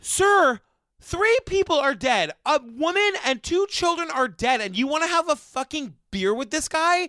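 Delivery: mock outrage thrown back at him; outraged retort. Talking back to the reporter who wants a beer with the killer, outraged.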